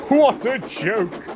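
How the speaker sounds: slow, high gloating chortle; chortling. A narrator's reading. Gordon gloats over Thomas's trouble, slow chortle. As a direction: savour the joke slowly. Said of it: "he chortled".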